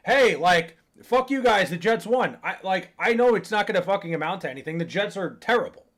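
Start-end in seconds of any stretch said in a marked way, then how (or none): 0.1-2.4 mock gloating. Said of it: "I'm not even going".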